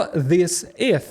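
THIS IS with the final S of IS turned into TH, "this ith"; misplaced TH. Shown as a demonstration. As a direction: end "this is" on a TH instead of S. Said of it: "Ви будете ставити цей звук «th» туди, куди не потрібно".

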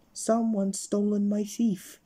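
slow, loud, high complaint; indignant shout. Acted. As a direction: drag out the outrage. Topsy-Turvy shouting, muddled.

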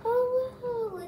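sudden high delighted gasp of a wow; surprised wow. Real, not acted. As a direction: caught off guard by how good it looks. Sees her sewing turn out.

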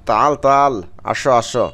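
তাল তাল আসো আসো repeated as an insistent call; doubled call. Shown as a demonstration. Teacher reviews the doubled call for students, urging. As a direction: beckon someone, doubling each word. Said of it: "double উচ্চারণ করি".

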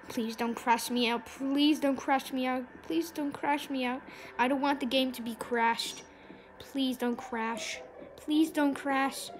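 soft, repetitive begging; quiet pleading. Real, not acted. Player to game about to crash, soft pleading. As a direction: beg softly, like a chant to ward it off.

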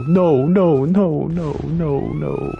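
high, loud no's; real exasperated shouting; frustrated yelling. Real, not acted. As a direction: yell it up high in protest. Frustrated gamer protesting in game.

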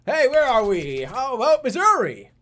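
very high, loud puppet voice; high, shouted monster puppet impression; Elmo. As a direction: call out like an excited cartoon monster.

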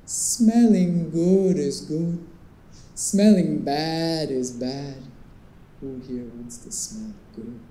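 slow, low Caribbean salesman's lilt; lightly imitated Caribbean perfume seller, slow and hypnotic; deep Caribbean accent. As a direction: draw each word out in a soothing Caribbean accent. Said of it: "he had this deep Caribbean accent".

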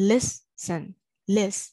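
LIS-ten, weight on the first syllable of "listen"; teacher's stress demo on the LIS of "listen". Shown as a demonstration. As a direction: press on the start of "listen", splitting the syllables. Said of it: "ပထမဦးဆုံး syllable မှာဖိသံထည့်".

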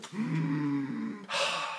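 soft, audible demonstration breath; open-throat breath. Shown as a demonstration. Coach demonstrating open breathing, soft breath. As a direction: breathe through an opened throat. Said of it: "get my throat to open breathing".

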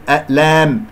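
ألام said thin, towards "eh-lehm"; wrongly tilted alif. Shown as a demonstration. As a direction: flatten the long a of ألام towards e. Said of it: "لا تقلل صوت الألف". (نطق ألام خطأً بتقليل الألف)

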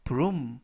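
"broom" with a long u sound; double o as "oo". Shown as a demonstration. Teacher recapping the vowel rule, broom with long u. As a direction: say "broom" with oo like Korean 우. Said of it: "우 발음이 납니다".

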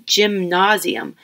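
"gymnasium" said as Jim Nah-zium; broad ah in the middle of "gymnasium"; "gymnasium" as a fancy person's name; overpronounced name. A narrator's reading. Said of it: "overpronounced version of the name".

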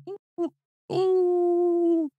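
high mock cheering oohs; excited family member. Family member cheering a bad answer, high mock oohs. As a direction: ooh like a thrilled contestant's relative. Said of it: "Steve's hitting you on the shoulder with his cards going".

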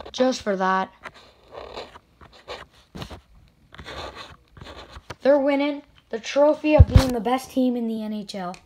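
loud mock-ceremonial declaration; triumphant announcement. Real, not acted. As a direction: crown your favourite team. Crowning his favourite team.

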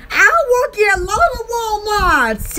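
mild imitated yell; retold scream. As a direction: imitate a man hollering, without full volume. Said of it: "he screamed".

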